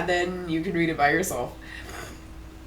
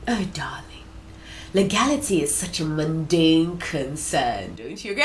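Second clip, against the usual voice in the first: sultry seductress; 3 semitones lower, 3 dB quieter than usual. Acted. Voices seductive AI character.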